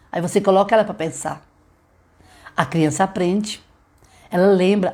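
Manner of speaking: ordinary delivery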